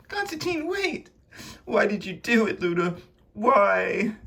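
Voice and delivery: high, anguished cries; distraught confrontation. Acted. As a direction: call out desperately, pitch soaring. Hurt confrontation, calling after him.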